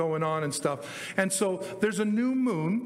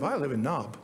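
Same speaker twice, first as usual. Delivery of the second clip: low deadpan reply; 5 semitones lower than usual. Acted. Acted exchange about the town Nob.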